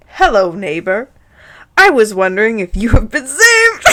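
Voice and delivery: mock-bright missionary greeting; bright exclamation. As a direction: greet brightly, building to a shout at the end. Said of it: "Hagrid exclaimed brightly".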